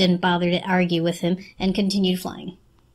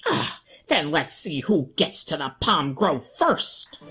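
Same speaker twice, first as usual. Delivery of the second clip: lower, slow lightly voiced bird; a lightly voiced bird daring her to race; chirping bird; 5 semitones lower, slower than usual. A narrator's reading. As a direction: lorikeet issuing a challenge. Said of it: "he chirped".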